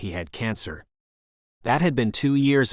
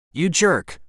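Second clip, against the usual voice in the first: sharp, higher hissed jab; hissed insult; 7 semitones higher, 4 dB louder than usual. A narrator's reading. Rick hissing at John as he passes, sharp jab. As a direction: spit it out under his breath at John. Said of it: "Rick hissed".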